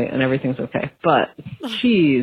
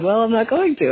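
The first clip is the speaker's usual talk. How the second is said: put-on defiant child; 6 semitones higher than usual. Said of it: "And she's like".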